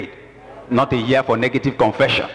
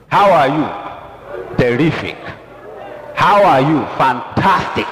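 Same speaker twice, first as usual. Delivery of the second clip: upbeat greeting exchange; 3 semitones higher than usual. Acted. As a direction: act out a hearty greeting and answer.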